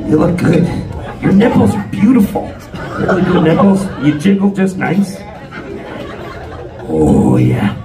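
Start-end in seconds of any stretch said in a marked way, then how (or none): none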